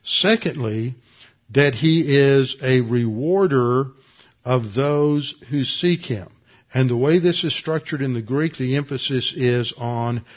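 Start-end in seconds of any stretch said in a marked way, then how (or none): 0.0-6.3 slow, weighty verse with a loud "rewarder"; slow emphatic reading. Shown as a demonstration. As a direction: stress "he is a rewarder", slowly. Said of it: "these are two different things".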